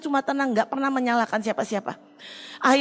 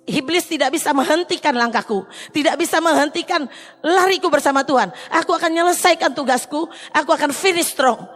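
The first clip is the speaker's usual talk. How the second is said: louder, higher proclamation of faith; firm, rising declaration of victory; defiant declaration; 4 semitones higher, 3 dB louder than usual. Retold or imitated. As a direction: declare it boldly to the pastor.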